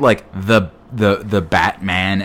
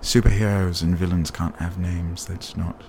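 a hushed, slightly lower snobbish auteur; Christopher Nolan impression; 3 semitones lower, slower than usual. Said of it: "That's a really good Nolan impression".

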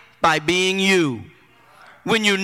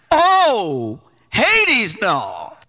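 mock outrage; much slower than usual. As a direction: rise on "Hades", then sink "no" to the floor. Preacher mocking outraged refusal.

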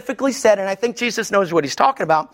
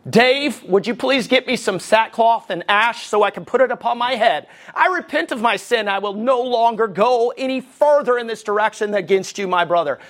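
hammed-up solemn confession; mock repentance. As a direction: recite it like an overblown formal apology. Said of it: "he don't even talk like that".

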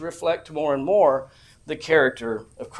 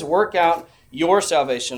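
"your" punched louder in "Work out your salvation"; stress on YOUR; 5 dB louder than usual. Shown as a demonstration. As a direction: lean hard on the word "your". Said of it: "the emphasis is your own".

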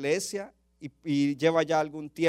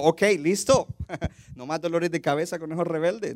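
a laughing, breezy shrug; mock relief. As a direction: play the fed-up pastor, half joking. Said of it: "él no dijo eso".

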